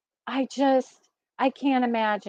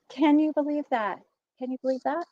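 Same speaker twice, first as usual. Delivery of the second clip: fading; 6 dB quieter, faster than usual. Real, not acted. Repeats the question, fading away.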